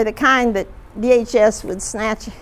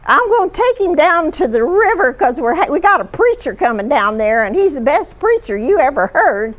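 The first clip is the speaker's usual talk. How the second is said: a light country twang, opening higher and louder; 4 semitones higher, 3 dB louder than usual. Retold or imitated. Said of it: "in her country twang".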